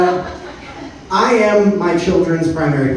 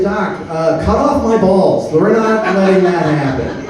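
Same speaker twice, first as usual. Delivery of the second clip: retold panicked plea; 5 semitones higher, slower than usual. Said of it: "And I said".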